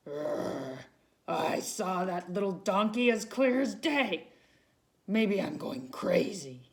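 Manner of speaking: a hint of a puzzled lion. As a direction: grumble it like a confused lion. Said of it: "he muttered".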